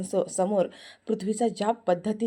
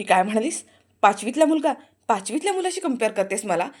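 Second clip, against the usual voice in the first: offended disbelief; 5 dB louder than usual. Acted. Prithvi offended.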